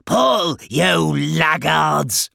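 high, loud, drawn-out shout; slow, high taskmaster's yell. A narrator's reading. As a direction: berate slow workers at full voice. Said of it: "shouted Bubondubon".

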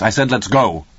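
understated impatient husband's command; sharp insistence. A narrator's reading. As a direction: insist on leaving right now. Father insists, startling his wife.

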